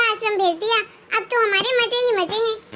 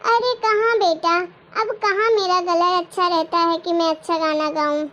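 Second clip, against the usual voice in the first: lightly voiced frail grandmother, a bit lower; old grandmother; 3 semitones lower than usual. Grandmother brushing off her son's praise, lightly voiced and weary.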